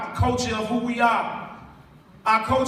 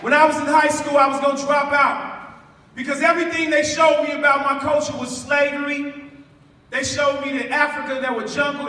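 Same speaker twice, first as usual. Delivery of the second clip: loud and higher, testifying; full preaching voice; 4 semitones higher, 5 dB louder than usual. Real, not acted. Poet testifying to the crowd about dropping out, loud. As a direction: preach it to the back row.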